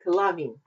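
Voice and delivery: "kalavim" said as ka-LA-vim, stress on the middle syllable; "kalavim" with the accent on LA; "kalavim" with the weight on the second syllable. Shown as a demonstration. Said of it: "you have the accent on that second syllable".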